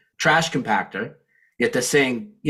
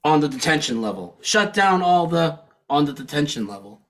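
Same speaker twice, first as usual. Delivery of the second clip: mock yell; 5 semitones higher than usual. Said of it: "He yells".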